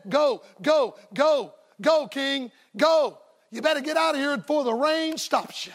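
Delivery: urgent shout. Acted. Elijah urging king to flee.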